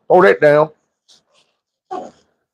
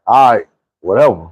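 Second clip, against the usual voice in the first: dismissive shrug; 4 semitones lower than usual. Retold or imitated.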